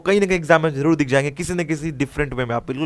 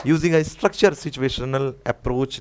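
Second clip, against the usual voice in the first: slow dictation; much slower than usual. Shown as a demonstration. Teacher reads answer option slowly.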